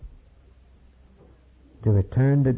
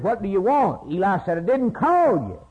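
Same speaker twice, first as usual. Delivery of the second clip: lively retold dialogue; 8 semitones higher than usual. Retold Samuel and Eli exchange.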